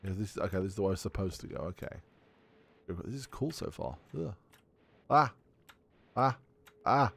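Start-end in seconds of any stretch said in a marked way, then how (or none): 5.1-7.1 short startled yelps; quick, separate cries of alarm; startled scream. Real, not acted. Player startled in the game, yelping. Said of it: "I don't know why I was screaming".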